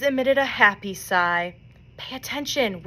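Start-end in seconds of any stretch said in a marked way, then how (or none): 2.0-2.8 whispered. A narrator's reading. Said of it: "whispered Flora".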